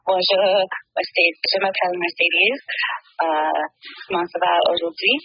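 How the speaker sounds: French greeting in a Canadian French accent; speaking French. Shown as a demonstration. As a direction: say it like a French lesson. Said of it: "Which means".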